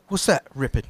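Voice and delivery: puzzled British mate, retold; lightly voiced British question; British accent. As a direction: imitate a British pal not knowing the slang. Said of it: "The British guy".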